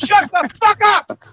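high, slow furious yell; real enraged demand for silence; angry shout. Real, not acted. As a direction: stretch out each word in a furious shout. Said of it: "anybody who does this".

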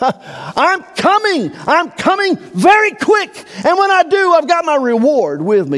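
triumphant divine proclamation; God's voice. Acted. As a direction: announce your return as God himself.

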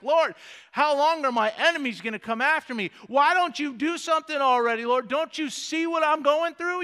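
David pleading in frustration, acted; frustrated cry. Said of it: "he's just frustrated at everything that's happening".

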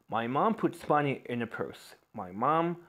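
very slow, broken into pieces; very slow dictation. Shown as a demonstration. Teacher reads an example sentence very slowly. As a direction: say it slowly, chunk by chunk. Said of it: "slow example sentence".

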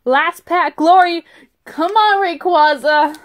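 rally for the last pack; hopeful cheer. Real, not acted.

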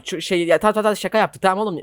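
ordinary talk, nothing marked

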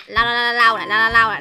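low repetitive cooing; doting baby talk. Pretend. Big sister wiping the pet's mouth, doting baby talk. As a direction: coo in a low murmur while wiping.

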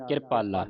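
ਕਿਰਪਾਲਾ with the subscript r said quickly. Shown as a demonstration. Teacher models subscript r, ਕਿਰਪਾਲਾ with a quick r. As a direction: slip swiftly through the r of ਕਿਰਪਾਲਾ, low and soft. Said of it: "ਛੇਤੀ ਦੇ ਨਾਲ ਉਚਾਰਨ ਕਰਨਾ ਹੈ".

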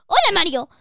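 lively game-character voice; a touch of a chirpy sidekick; lightly voiced Toad. Toad greeting Mario and explaining doors, lightly voiced character.

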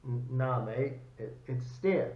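attempted Australian accent, fairly low-key; bad Australian accent. Australian soldier correcting an American on a rifle, shaky-attempt Australian accent. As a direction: imitate an Australian, not very well. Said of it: "I'm probably screwing up the accent".

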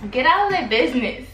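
laughing. Real, not acted. Laughing dismissal.

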